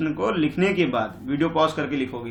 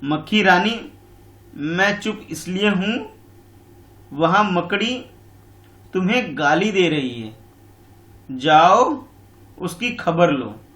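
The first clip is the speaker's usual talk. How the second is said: sly fox; 3 semitones higher, 3 dB louder, slower than usual. Acted. Fox voiced in the story.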